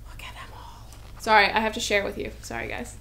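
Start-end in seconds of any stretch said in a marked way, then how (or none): 0.1-0.9 whispered, barely voiced; hushed whisper. Real, not acted. To viewers, over cute hedgehog stickers, awed whisper.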